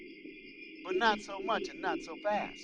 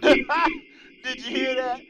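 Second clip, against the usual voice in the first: incredulous; 6 semitones higher, 11 dB louder, much slower than usual. Real, not acted. Host reacts to the clip.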